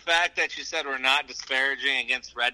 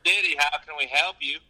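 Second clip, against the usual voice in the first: lightly put-on customer service greeting; business-like shop greeting; professional phone greeting; 4 dB louder than usual. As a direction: answer the pizza line, a touch of performance. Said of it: "this is gonna be professional".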